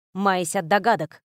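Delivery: ordinary delivery, nothing marked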